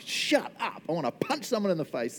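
Jonah. Acted. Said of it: "He's not just ticked, he's like".

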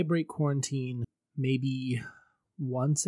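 confessional whisper. Real, not acted. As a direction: whisper it like a guilty secret. Confession of breaking quarantine.

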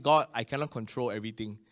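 soft, low retold prayer; quietly recalling a weary prayer; hushed prayer. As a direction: murmur it to God from the sickbed. Retold sickbed prayer to God.

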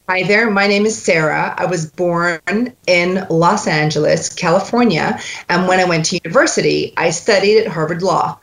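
light American accent, Los Angeles style; an easy American accent spark sentence. Shown as a demonstration. Coach demonstrating American accent spark sentence. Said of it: "if I wanted to do an American accent".

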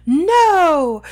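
high, loud cry of protest; shout. A narrator's reading. Harry protesting to Fudge, high loud shout. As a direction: cry out No! to stop him. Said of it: "shouted Harry".

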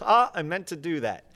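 hint of a plucky cartoonish man; Pee Wee Herman. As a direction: play off a fall as if intended. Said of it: "I say pull from Pee Wee Herman".

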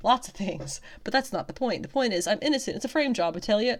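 put-on southern accent. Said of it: "I don't know why she has a southern accent".

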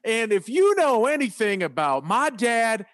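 mildly projected radio appeal. Retold or imitated. Host re-enacting his ad for leads, radio voice. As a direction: read it as an upbeat commercial. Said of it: "I was like".

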